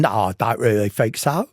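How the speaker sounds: imitating a pronounced Cockney accent; light retold Cockney impression. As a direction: answer as a Cockney would. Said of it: "in her pronounced Cockney accent".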